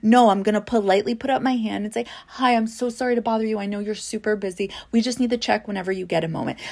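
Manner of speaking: quick, over-polite apologetic voice; nervous hopeful door seller. Retold or imitated. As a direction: rush the apology, eager to please. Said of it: "It's like".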